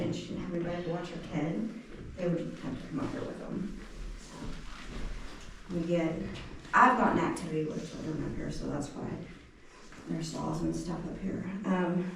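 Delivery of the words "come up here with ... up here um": winded, still panting slightly; out of breath. Real, not acted. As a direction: speak between breaths. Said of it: "trying to catch my breath".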